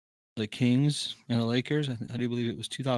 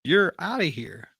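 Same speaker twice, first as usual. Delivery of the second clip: raised, drawn-out umpire's ejection call; imitated yell; 7 semitones higher, 4 dB louder, slower than usual. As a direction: mimic an umpire tossing someone out, higher and slow. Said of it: "and he yells".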